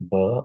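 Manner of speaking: B said as a short "buh"; consonant sound demo. Shown as a demonstration. Teacher giving students an example consonant sound, B sounded as "buh". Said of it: "list three example of consonant sounds".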